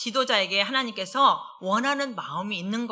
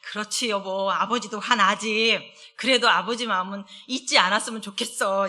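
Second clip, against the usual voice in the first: soothing answer. Retold or imitated. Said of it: "그래서".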